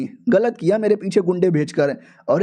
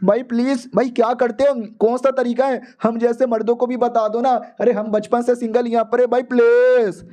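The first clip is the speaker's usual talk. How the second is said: put-on whiny boys pleading for dating advice; pleading whine; 4 semitones higher than usual. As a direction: beg like desperate lifelong singles. Single boys begging for tips.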